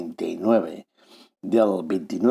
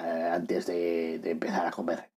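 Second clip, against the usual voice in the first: whispering; 2 semitones lower, 8 dB quieter than usual. Real, not acted. Aside about a wine.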